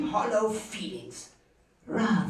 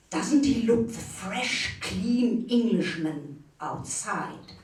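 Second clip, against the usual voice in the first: measured, deliberate poetry reading; poem recitation. Acted. Reader presenting a critical Lawrence poem to an audience, measured recitation. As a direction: recite with pauses and dry mock admiration.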